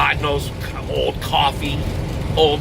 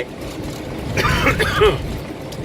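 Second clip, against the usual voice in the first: real throaty cough. Real, not acted. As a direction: cough mid-story. Coughs mid story.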